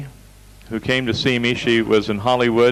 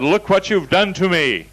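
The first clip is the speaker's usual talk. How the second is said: high-pitched, indignant mock complaint; acted angry patient; 7 semitones higher than usual. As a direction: imitate an outraged woman's accusing cry. Angry patient confronts the speaker.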